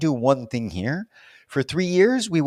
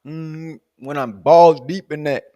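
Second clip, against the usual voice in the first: flustered answer; 2 semitones higher, 5 dB louder, slower than usual. Retold or imitated. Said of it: "I'm like".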